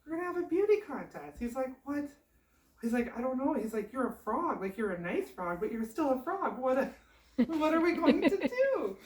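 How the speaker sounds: high, loud panicking, breaking into a laugh; frantic husband. Acted. Son frets to frog wife about the contest, high comic panic.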